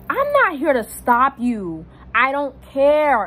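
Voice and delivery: slow, drawn-out insistence; emphatic retort. Retold or imitated. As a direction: spell it out slowly, as if fed up.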